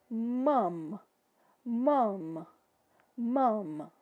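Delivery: mom with the lips closing fully on each m; English mom. Shown as a demonstration. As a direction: open and close the mouth on mom. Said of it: "Tá vendo que eu abro a boca e fecho?". (mom com os lábios fechando no M)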